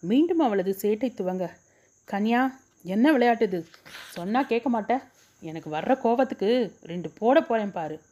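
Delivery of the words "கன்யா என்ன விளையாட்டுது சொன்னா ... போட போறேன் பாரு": put-on stern aunt scolding a child; threatening scold. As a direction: warn her sharply, half-serious. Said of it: "மிரட்டினாள்".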